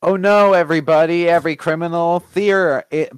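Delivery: loud, high hammed-up proclamation; mock dramatic announcement. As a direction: boom it like a superhero trailer.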